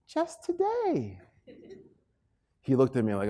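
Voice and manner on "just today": quiet punchline. Shown as a demonstration. Speaker landing the motto for the audience, soft and slow. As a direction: drop it soft and slow after the buildup.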